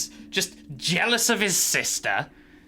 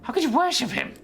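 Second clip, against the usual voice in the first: mischievous god; 3 semitones higher than usual. Acted.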